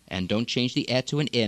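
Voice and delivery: deliberate Arabic accent practice reading; exaggerated Arabic accent drill. Shown as a demonstration. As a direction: overdo each Arabic sound change. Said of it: "emphasized every single change".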